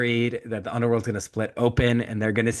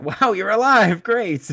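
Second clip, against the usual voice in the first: high, louder, sarcastic chirp with a laugh; mock delighted greeting; 10 semitones higher, 5 dB louder than usual. Priam greeting Briseis, who lived, in a high mock-cheery voice. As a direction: overplay the cheer until it turns sarcastic.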